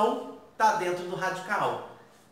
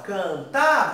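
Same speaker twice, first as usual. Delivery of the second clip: "cantar" with its last syllable louder and held; sílaba tônica destacada; 4 dB louder than usual. Shown as a demonstration. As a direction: punch the final TAR of "cantar". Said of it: "a mais forte é o A". (última sílaba de "cantar" mais forte)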